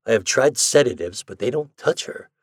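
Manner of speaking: high-pitched, earnest exclamations; exclaiming. A narrator's reading. Doctor describing a frightened patient to Ford, exclaiming. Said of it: "he exclaimed".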